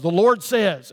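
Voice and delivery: mildly emphatic imitation of a prophet; forceful prophetic declaration. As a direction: proclaim it with imitated authority. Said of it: "they'll say it with such force".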